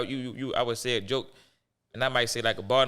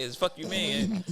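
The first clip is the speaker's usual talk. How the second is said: Baltimore slang; 2 semitones higher, much slower than usual. Shown as a demonstration. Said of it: "Hey, hey".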